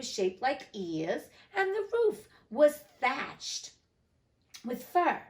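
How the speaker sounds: animated storybook reading with lively pitch swings; story narration. A narrator's reading. Narrator telling listeners of Alice meeting the Cheshire Cat, story narration. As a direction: read it aloud, drawing out key words. Reads story aloud to audience.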